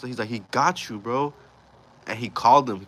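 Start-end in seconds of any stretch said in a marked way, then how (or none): 0.3-1.3 mildly heated, slightly raised voice; retold anger. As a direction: imitate an indignant homie. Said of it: "he got hella mad".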